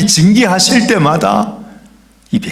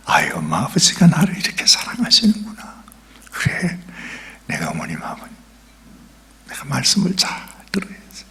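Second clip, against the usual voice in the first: put-on grateful child; 4 semitones lower, 7 dB quieter than usual. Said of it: "진짜".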